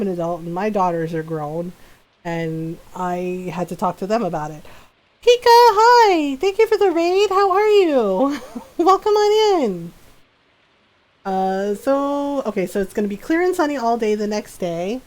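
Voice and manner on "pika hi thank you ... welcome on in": high, loud, slow welcome; excited greeting. Real, not acted. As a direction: greet a raider with delight. Greeting a raiding streamer.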